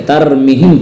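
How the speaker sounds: तरमीहिम with a short "mi"; common wrong reading. Shown as a demonstration. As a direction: hurry through the middle vowel of तरमीहिम. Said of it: "अक्सर लोग इसको गलत पढ़ के". (तरमीहिम में मी छोटा, ग़लत)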